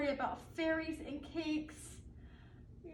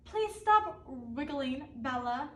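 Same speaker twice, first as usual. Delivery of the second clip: patient mommy; slower than usual. Acted. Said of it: "and Mommy said".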